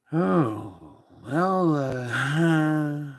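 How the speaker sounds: flustered stammer into a laugh; doctor fumbling. Retold or imitated. Doctor caught out and laughing, stammering. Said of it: "the doctor just kinda said".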